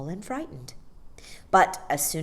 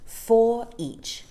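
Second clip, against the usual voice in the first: Mary Poppins; 5 semitones higher, 4 dB louder than usual. A narrator's reading. Second take of same line.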